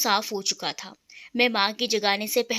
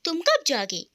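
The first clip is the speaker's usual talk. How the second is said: mildly surprised. Acted. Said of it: "वो आश्चर्यचकित होकर बोली".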